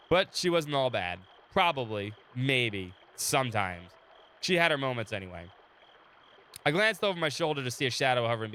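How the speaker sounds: steady storyteller read of the game text; story narration. Acted. Streamer reading the game story to chat, calm narration. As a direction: narrate the scene for the viewers.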